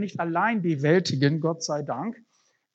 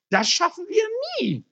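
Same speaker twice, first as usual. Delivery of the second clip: much higher, puffing hopeless groan; panting despair; 3 dB louder than usual. Acted. Exhausted man doubting they can ever finish, panting despair. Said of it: "schnaufte der Mann".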